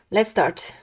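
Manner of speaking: normal talking voice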